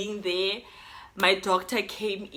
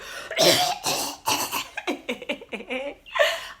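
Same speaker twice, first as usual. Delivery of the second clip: hard cough; 4 semitones higher than usual. Shown as a demonstration. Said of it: "I'll be like".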